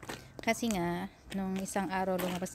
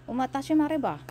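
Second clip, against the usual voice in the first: quoted Korean ajumma, higher and louder; Korean woman; 8 semitones higher, 7 dB louder than usual. Retold or imitated. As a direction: mimic the Korean lady asking.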